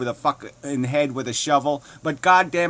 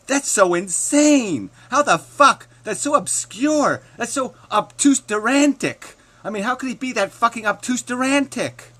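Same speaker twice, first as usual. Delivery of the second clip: much higher and louder sarcastic shout; sarcastic yelling; 9 semitones higher, 5 dB louder than usual. Acted. Ranting sarcastically at the opponent, shouting high. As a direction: scream the mockery at him.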